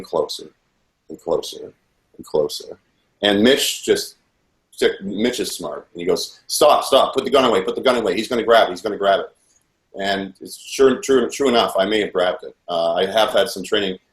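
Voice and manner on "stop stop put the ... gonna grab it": retold urgent warning, rushed in the middle. Man warning the gunman to put the gun away, retold with urgency. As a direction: quote a quick, alarmed order to back off.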